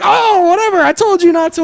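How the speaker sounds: high-pitched mock scolding; imitated exasperation. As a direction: retell her annoyed "told you so". Acts out the annoyed woman.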